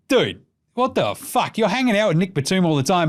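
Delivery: lightly voiced betrayed friend; mock France. Podcaster voices France complaining about Embiid, mock indignant. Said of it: "France has gotta be like".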